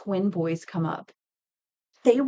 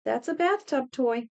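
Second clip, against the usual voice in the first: deadpan verdict; 5 semitones higher than usual. Retold or imitated. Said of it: "I would jokingly".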